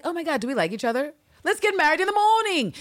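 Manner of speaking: high-pitched, over-excited proposal; mock gushing. New sweethearts deciding to marry, high mock gushing. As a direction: blurt it out high, mock lovestruck. Gushing quote, repeated more plainly later.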